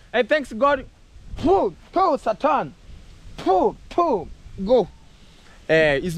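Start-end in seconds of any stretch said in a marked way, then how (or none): 1.4-2.2 mock spitting. Spitting at Satan. 3.4-4.9 mock spitting. Spitting at Satan again.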